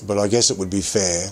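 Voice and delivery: talking while chewing gum. Real, not acted. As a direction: speak around a piece of gum. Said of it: "I'm chewing, chewing gum".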